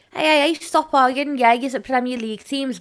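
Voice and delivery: lightly acted telling-off; mock peacemaker. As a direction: break up the squabble, half-exasperated. Mock peacemaker breaking up football argument.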